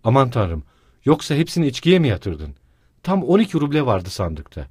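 çaresiz haykırış; despairing outcry. Acted. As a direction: cry out to God. Wife despairs over lost money.

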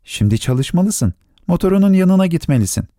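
a touch of comfort, lifting the pitch; reassuring voice. A narrator's reading. Little prince sending the pilot back to work, mildly reassuring. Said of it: "Rahatlatıcı bir sesle".

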